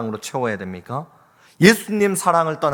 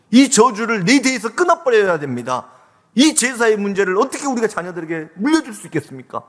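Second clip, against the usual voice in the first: raised, higher-pitched pleading prayer; fervent prayer; 4 semitones higher than usual. Acted. Preacher praying to God over family conflict, fervent pleading. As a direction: plead with God, pressing and insistent.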